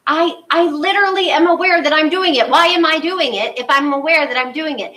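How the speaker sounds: frustrated quote. Retold or imitated. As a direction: play the exasperated student who just doesn't get it. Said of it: "everybody gets really frustrated".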